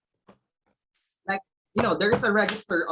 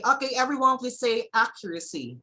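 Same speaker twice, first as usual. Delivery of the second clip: teacher voice; 3 semitones higher, 3 dB louder than usual. Shown as a demonstration. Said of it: "you say".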